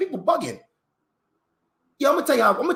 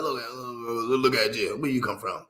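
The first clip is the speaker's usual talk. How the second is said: imitating a staring white person; 8 semitones lower, 5 dB quieter than usual.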